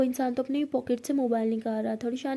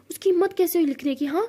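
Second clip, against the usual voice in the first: higher, louder indignant question; mock fury at his nerve; imitating an angry girlfriend; outraged; 6 semitones higher, 4 dB louder than usual. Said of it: "तो परी बहुत गुस्सा कर रही होती है".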